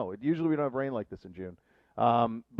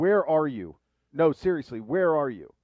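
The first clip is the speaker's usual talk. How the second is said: raised, mock stern, no-nonsense demanding voice; 3 semitones higher, 5 dB louder than usual. Retelling a reply to a sunny-weather message: retelling a very stern tone. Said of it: "in a very stern tone".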